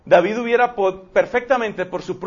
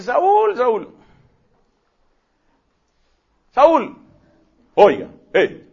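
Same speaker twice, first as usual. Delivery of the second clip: high, loud call across the valley; 5 semitones higher, 5 dB louder, much slower than usual. Retold or imitated. David shouting to sleeping Saul from the mountain, loud high call. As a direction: shout his name from far away. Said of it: "empieza a llamar a gritos a Saúl".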